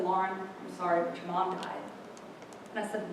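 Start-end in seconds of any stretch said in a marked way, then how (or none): 0.0-1.8 retold grave news. Father tells his daughter of a death, hushed and grave. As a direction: break it gently, voice dropping.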